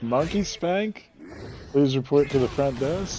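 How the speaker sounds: slow PA announcement voice; flat echoey pa page. Pretend. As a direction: page it like a store intercom. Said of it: "go up to the thing yourself and be like".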